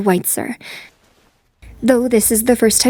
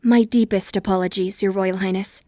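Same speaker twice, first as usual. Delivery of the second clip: softer, composed and deferential; formal apology; 3 semitones lower, 6 dB quieter than usual. Acted. Woman apologises to a crown prince, formal and subdued. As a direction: apologise with courtly restraint.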